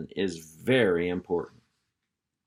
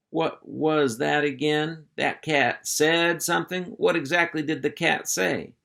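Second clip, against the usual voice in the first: alarmed; 6 semitones higher than usual. Acted. Hank questioning Roscoe.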